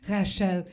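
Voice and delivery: Rachel said the French way, "ra-SHELL"; French pronunciation. Shown as a demonstration. Comedian savouring her name as a French person says it, French pronunciation. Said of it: "It makes me feel sexy".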